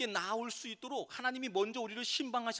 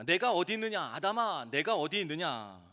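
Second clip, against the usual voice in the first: loud calling 내가 어디 있느냐 아담아; God calling out; 5 dB louder than usual. Retold or imitated. God calling out loudly to Adam. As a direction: call out to a hiding man. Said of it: "하나님께서 이제 아담을 부르십니다".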